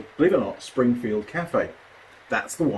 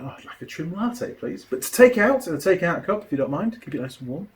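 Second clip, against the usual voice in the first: put-on posh English accent; 5 semitones higher than usual. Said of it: "proper, proper English accent, super polite".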